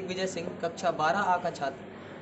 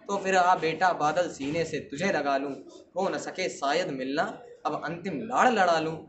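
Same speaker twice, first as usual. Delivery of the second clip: lower, affectionate last goodbye in verse; tender farewell; 4 semitones lower than usual. Acted. Old warrior embracing his nephew for the last time, tender. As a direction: let the voice sink into fond parting.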